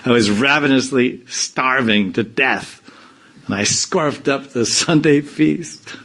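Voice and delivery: mock a devotee gushing over his overeating; hammed-up glutton. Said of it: "People talk like this".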